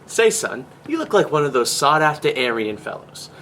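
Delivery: put-on old-timey salesman pitch; lightly hammed-up 1950s huckster; chipper 1950s ad. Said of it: "Watch this".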